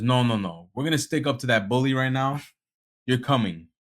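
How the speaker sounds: acting out an insistent mother; forceful mom. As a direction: lay down the law, lightly imitated. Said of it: "That forceful one".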